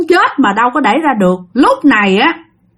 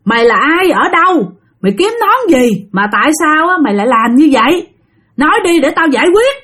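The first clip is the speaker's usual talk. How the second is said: higher interrogating voice; lightly voiced shaman; stern questioning; 3 semitones higher than usual. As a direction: press the spirit to talk. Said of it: "Thì ổng kêu".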